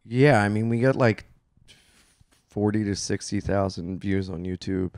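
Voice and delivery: hushed, secretive numbers; whispering. Real, not acted. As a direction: say the figures under your breath. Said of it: "Why are you whispering it?".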